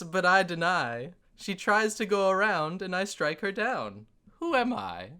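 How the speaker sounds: lightly voiced pompous riddler; professor dwarf voice. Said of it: "So he says".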